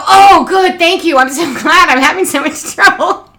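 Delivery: high, loud relieved babble; relieved gushing. Retold or imitated. Mother thanking the lady for help, high relieved gushing. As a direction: gush with relief at the stranger. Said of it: "I look at the lady and I go".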